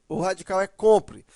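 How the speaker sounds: ordinary talk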